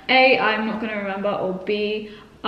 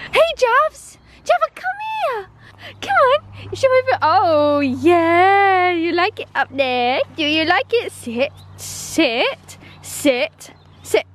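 very high excited coo; calling the dog; 6 semitones higher, slower than usual. Real, not acted. Calling and praising Java in high baby talk. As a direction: cheer the dog on.

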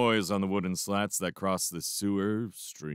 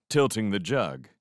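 plain reading voice

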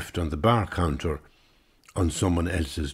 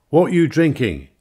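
loud pushy Englishman asking; brash barroom voice; 9 semitones higher, 7 dB louder than usual. Acted. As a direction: bark it across the bar like a loudmouth. Englishman's loud question at bar.

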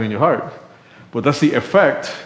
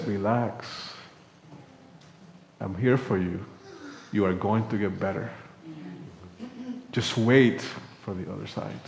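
gentle reassurance; 8 dB quieter than usual. Pretend. God softly reassures the hurting believer. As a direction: soothe a frightened child.

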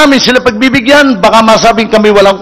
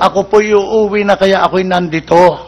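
put-on meek drunk; 2 semitones lower than usual. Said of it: "Aba, mabait naman to".

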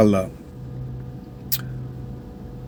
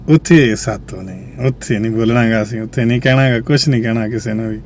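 hushed, wary; 6 semitones lower, 5 dB quieter than usual. Real, not acted. Afraid to speak against real thieves. (ਡਰਦੀ ਹੋਈ ਨੀਵੀਂ, ਧੀਮੀ ਆਵਾਜ਼)

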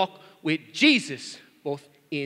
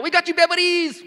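high, loud mock-child shout; blurted child's yell; 12 semitones higher, 7 dB louder than usual. Daughter blurting out Dad's gift, imitated yell. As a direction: imitate a little girl yelling out. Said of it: "she just went yell 'em out".

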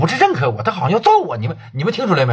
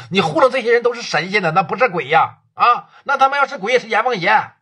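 furious scolding, pitch raised and pushed; angry tirade; 3 semitones higher than usual. Acted. Boss chewing out his partner on the phone, furious. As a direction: tear into him over the phone, relentless.

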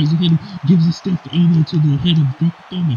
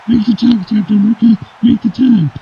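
urging call-out; 5 semitones higher than usual. Acted. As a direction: shout advice toward the ring. Urging the wrestler to tag.

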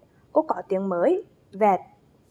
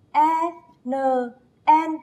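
spelling aloud; 3 semitones higher than usual. Shown as a demonstration. Teacher spells the rhyme with her class, chanting. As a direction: chant "E, N, N" as separate, measured beats. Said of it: "Đánh vần và đọc trơn cùng cô nào".

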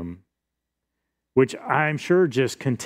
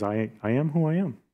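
softer, calm statement of identity; softer, steady Jesus answering his accusers; 3 semitones higher, 4 dB quieter, faster than usual. Acted. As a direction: say it calmly, unshaken. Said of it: "Jesus just calmly stands".

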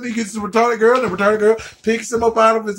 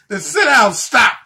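shouted command; 4 dB louder than usual. Acted. Yells at self to stop.

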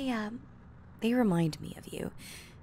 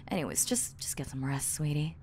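whispering; 3 semitones lower than usual. Acted. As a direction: hush them to sleep. Lulling partner to sleep.

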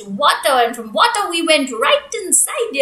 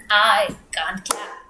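breathy whispered reply; 6 semitones lower, 3 dB quieter, slower than usual. Pretend. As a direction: whisper it as the little bird. Bird answers in song.

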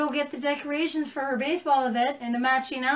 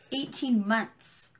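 slow disbelief; much slower than usual. Real, not acted. Stressing outrage at sentence.

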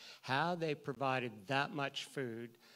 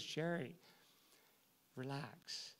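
calm; 9 dB quieter, slower than usual. Retold or imitated. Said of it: "she just turns to me".

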